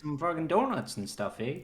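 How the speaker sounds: hammed-up Minnesota accent, high; Cliff Underson. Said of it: "sounds like a character from Fargo".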